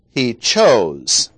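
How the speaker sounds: CHOSE hit hard, then falling; stress on CHOSE. Shown as a demonstration. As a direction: lean firmly on the word chose. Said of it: "emphasis on the word chose".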